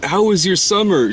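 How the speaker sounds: put-on high-pitched kid hello; imitated schoolboy greeting. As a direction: greet a crush in a high boyish voice. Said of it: "he's like".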